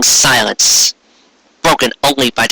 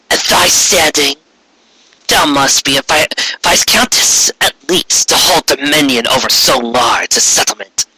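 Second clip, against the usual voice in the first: regal demon queen. Acted. Returned queen demanding the village present itself, imperious. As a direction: command the cowering ponies like a returned tyrant. Corona questioning.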